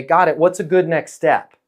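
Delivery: calm, non-pushy acknowledgement; easy, unpressured follow-up question; calm, neutral. Shown as a demonstration. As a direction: take the no evenly. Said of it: "I'm gonna calmly say".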